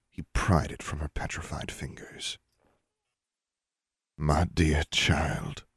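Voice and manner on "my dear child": slow, gentle address; tender. Acted. Father soothing his furious daughter, tender. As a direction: say it slowly with regret.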